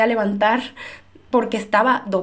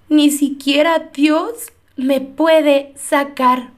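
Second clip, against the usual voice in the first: drawn out, every word weighed slowly; scene: she repeats the despairing words she said on her floor, very slowly; slow despairing quote; much slower than usual. Retold or imitated. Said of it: "llegué a decir con estas palabras".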